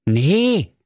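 put-on high-pitched eager young man; Marco, high voice. Marco asks the grumpy dwarf for a tree, in a high voice. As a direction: pipe it up brightly, full of hope.

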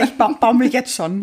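laughing. Real, not acted. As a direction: burst out laughing. Laughing reply.

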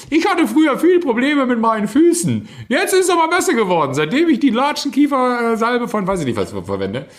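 high, loud TV commercial voice. Retold or imitated. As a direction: mimic a cheesy foot-cream ad. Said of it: "wo sie sagt so".

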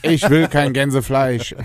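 slow mock Saxon; Saxon accent. Caller joking back at the Saxon agent, slow mock Saxon accent. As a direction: draw it out in put-on Saxon. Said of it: "Und dann hast du jemand aus Sachsen dran".

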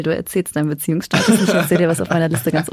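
lachend und neckend. Real, not acted. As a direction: mit Lachen in der Stimme sprechen. Teasing deal, laughing. (lachend einen Deal vorschlagen)

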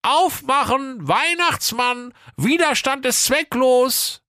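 very high, slow put-on voice; wolf faking Santa badly; disguised voice. A narrator's reading. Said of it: "Der Wolf rief mit verstellter Stimme". (hohe verstellte Stimme, langsam)

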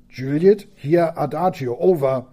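stranger's boat answering the call; radio reply. Acted. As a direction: answer like an unknown voice over the radio.

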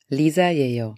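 "Lisa 예요" said slowly and clearly; careful Korean sentence; slow Korean demo. Shown as a demonstration. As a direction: model "Lisa 예요" for learners.

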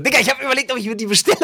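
high, giggling through the words; laughing. Real, not acted. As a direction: laugh while confessing. Admits wanting ugly Crocs.

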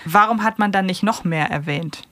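usual speaking voice

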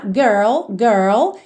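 put-on "Girl" with R and L run together smoothly. Shown as a demonstration. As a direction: say "girl" in one short natural movement. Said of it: "um pouco mais rápida e um pouco mais natural".

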